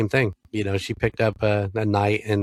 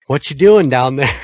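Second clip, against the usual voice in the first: louder, higher dumbfounded hey; stunned casual greeting; 4 semitones higher, 8 dB louder than usual. Retold or imitated. Grandson finding grandma fallen, dumbfounded casual question. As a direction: ask it like nothing's wrong. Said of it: "only thing that could come out".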